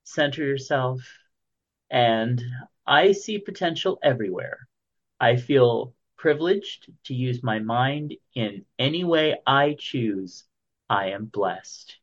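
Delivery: affirmation voice. Acted. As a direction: recite it like a mantra. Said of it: "your daily affirmation".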